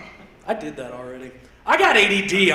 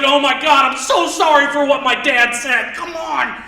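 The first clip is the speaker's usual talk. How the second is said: loud, rushed, higher apology; frantic apology; 5 semitones higher, 5 dB louder than usual. Retold or imitated. Embarrassed kid apologizing to a stranger for dad, loud and rushed. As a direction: rush in apologizing for dad loudly.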